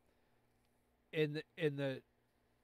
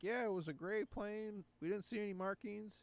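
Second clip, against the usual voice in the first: lightly mocked eyewitness in a higher pitch; imitated eyewitness; 8 semitones higher than usual. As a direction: voice an insistent witness, pitched up. Voicing excited eyewitnesses to the plane.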